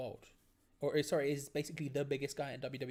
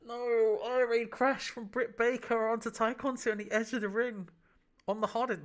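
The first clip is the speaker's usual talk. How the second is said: excited; 6 semitones higher, 6 dB louder than usual. Real, not acted. Big move lands on ring edge.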